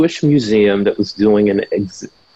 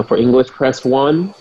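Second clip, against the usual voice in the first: phone menu voice. Retold or imitated. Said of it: "and they say".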